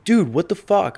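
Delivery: retold angry message, played up; mock outrage. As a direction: act out the friend's shocked anger. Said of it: "He's like".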